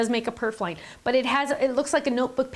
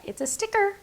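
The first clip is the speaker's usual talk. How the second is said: excited; 9 semitones higher than usual. Real, not acted. Showing a die cut to viewers.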